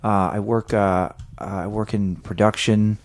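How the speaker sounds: calm voice. Acted. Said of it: "trying talking a calm voice".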